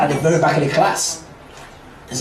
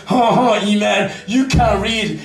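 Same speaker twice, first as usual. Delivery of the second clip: sing-song schoolboy taunt, pitched up; mocking taunt; 5 semitones higher, slower than usual. Classmate Billy taunting Iman, mocking sing-song. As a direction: jeer at Iman like a smug classmate. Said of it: "Billy, looks over to me and says".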